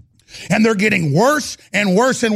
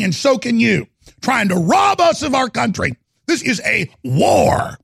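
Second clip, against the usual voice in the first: rising into a shout; angry outburst; 4 semitones higher than usual. Real, not acted. A radio host telling listeners he is mad, rising into an angry shout. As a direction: let the anger break through on "rob us of our country". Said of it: "And it makes me mad".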